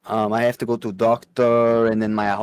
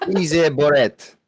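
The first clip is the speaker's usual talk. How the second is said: slow, higher mock foreign accent; muddled Russian-Mexican accent; 4 semitones higher, 3 dB louder, slower than usual. Answering friends' teasing in a muddled Russian-Mexican accent. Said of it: "You sound Russian trying to do a Mexican".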